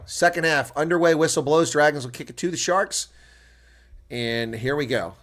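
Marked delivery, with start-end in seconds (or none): 0.1-3.1 higher, louder match call; live play-by-play. Acted. Commentator calling the restart for stream viewers, excited play-by-play.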